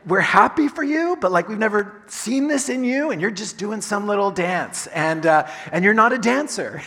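lightly voiced amazed relatives; surprised friends. Friends and family reacting to your little dance, amused. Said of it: "everyone's like".

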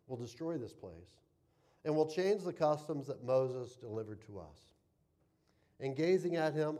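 measured, solemn reading of scripture aloud. Acted. Pastor reading Acts to the congregation, solemn reading. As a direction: read the passage to the congregation with weight.

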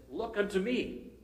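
high, slow preacher's call; lightly hammed-up pulpit cry; pulpit quote. Lay preacher calling the chapel to look, high and drawn out.

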